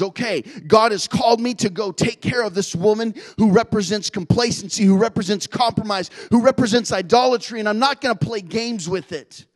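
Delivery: Jehu firing himself up to act, determined and loud; determined vow. Acted. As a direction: swear it like a man decided.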